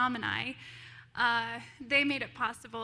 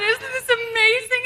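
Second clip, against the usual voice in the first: high, loud gushing question; excited woman asking the little girls; thrilled; 11 semitones higher, 12 dB louder than usual. Retold or imitated. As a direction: gush with childlike glee. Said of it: "I said".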